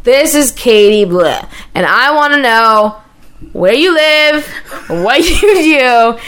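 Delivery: slow, measured letter-reading; drawn-out, lightly formal delivery; dictating a letter. Retold or imitated. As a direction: read your childhood letter aloud, word by word. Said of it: "I'm gonna write a letter".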